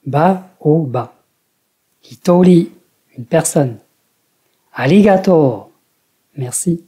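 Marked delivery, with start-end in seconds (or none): 0.1-1.1 "ba au ba" slowly, high in the middle; low-high-low pitch pattern. Shown as a demonstration. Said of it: "L'accent est au milieu du mot". 2.1-2.7 "Hitori" high and loud on TO, then dropping; accent in the middle. Shown as a demonstration. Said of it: "L'accent est au milieu du mot". 4.7-5.7 "Arigato" rising to the middle, then falling; accent in the middle. Shown as a demonstration. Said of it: "L'accent est au milieu du mot".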